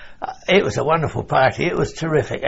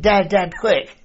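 retold shout; 6 semitones higher, slower than usual. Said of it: "he shouted up to my dad".

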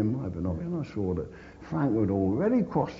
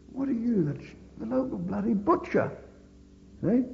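a high, louder mocking quip; joking jibe; 13 semitones higher, 4 dB louder than usual. Soldier teasing the stretcher bearer, joking high jibe. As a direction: tease him like a mate. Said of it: "as a joke".

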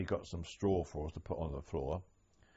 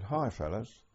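imitating a Bronx accent, pitched up a little; lightly put-on American twang, higher than usual; 5 semitones higher, slower than usual. German guard greeting prisoners in a cattle truck, imitated American accent. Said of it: "in a very strong American accent, almost a Bronx accent".

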